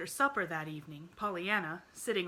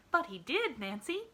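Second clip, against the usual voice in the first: nodding insistence; 8 semitones higher, 5 dB louder than usual. Acted. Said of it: "she nodded".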